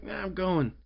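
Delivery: high breezy brush-off; mock defiant. Voicing her defiance.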